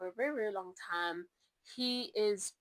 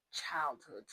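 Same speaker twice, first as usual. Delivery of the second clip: whisper; 6 semitones lower than usual. Real, not acted. Whispered aside.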